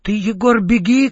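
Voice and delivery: high urgent shout; shouting run. A narrator's reading. Right ants yell at Egor to flee, high shout. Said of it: "кричат правые мурашки".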